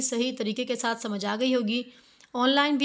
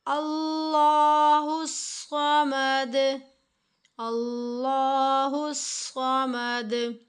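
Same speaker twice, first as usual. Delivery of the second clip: slow, drawn-out chanted recitation; slow Quran recitation; much slower than usual. Shown as a demonstration. Quran teacher demonstrating a verse, slow chanted recitation. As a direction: recite it slowly, drawing out each vowel. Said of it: "repeat कर लेते हैं".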